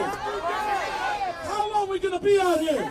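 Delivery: slow, drawn-out rally shout. Real, not acted. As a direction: stretch it out and call to the crowd.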